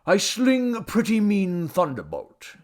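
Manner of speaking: high, slow, drawling boast; boastful tipsy god. A narrator's reading. God about to zap the rival, boasting. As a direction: relish the threat lazily.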